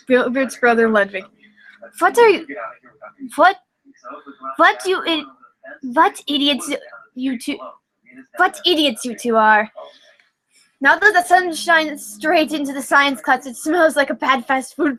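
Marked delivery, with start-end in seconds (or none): 2.0-9.7 exasperated scolding. Acted. Ludwig scolding his brother and friend, exasperated. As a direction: tell off the two idiots.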